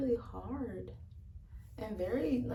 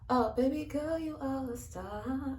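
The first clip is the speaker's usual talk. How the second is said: sweet-talking voice; 6 semitones higher than usual. Retold or imitated. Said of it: "lies about yourself".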